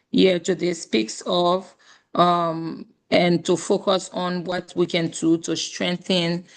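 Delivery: hoarse voice. Real, not acted. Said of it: "I apologize for the quality of my voice".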